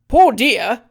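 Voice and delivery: high, loud indignant repeat; outraged echo. Acted. Trott flinging the landlady's pity back at her, indignant. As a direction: throw her words back at her.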